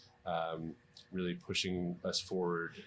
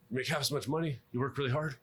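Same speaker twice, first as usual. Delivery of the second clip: higher pitched Philadelphia-British mix; mock Philadelphia-British accent; 7 semitones higher, 4 dB louder, faster than usual. Mentor warning trainees off the field, in a mock Philadelphia-British accent. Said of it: "spoke like that with a mix of Philadelphia and British".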